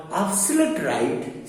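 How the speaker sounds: "absolute" slowed for emphasis; stress on ABSOLUTE. Shown as a demonstration. Teacher giving another example, slow stress on "absolute". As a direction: lean slowly on "absolute" before the noun. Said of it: "they are giving emphasis on the noun".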